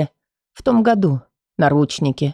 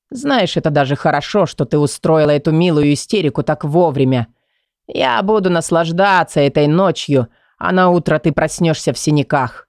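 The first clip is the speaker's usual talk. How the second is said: threatening whisper; 2 semitones lower than usual. Acted. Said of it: "Его угрожающий шёпот".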